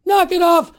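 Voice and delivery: loud, high, punchy demand; speaking up forcefully. Acted. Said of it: "time to speak up and say".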